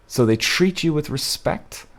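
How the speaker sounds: slow, each word weighed in disbelief; drawn-out sceptical rereading; slow incredulous reread. Shown as a demonstration. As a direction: repeat it slowly like you can't believe it. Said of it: "Hang on".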